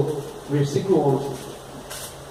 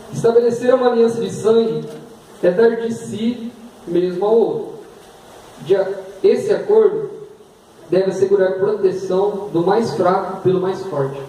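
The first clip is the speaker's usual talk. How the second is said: raised, fast preaching; 3 semitones higher than usual. Acted. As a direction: preach it with fervor.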